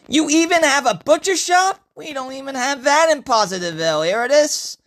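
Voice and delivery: high, loud, rushed disbelief; amazed excitement. Acted. Newcomer marvelling at the town's butcher shop, amazed.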